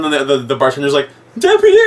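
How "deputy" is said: shrill high loud yell of deputy; mock scream. Bartender fleeing calls for the deputy, high mock scream. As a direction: shriek it as you flee.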